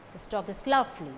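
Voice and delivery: "dog" and "lovely" stressed, quick weak "is". Shown as a demonstration. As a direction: hit "dog" and "lovely", hurry the rest. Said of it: "that carry stress are dog and lovely".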